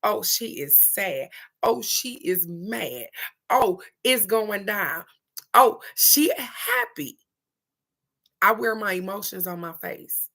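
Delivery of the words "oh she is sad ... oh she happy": imitating viewers. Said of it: "be like".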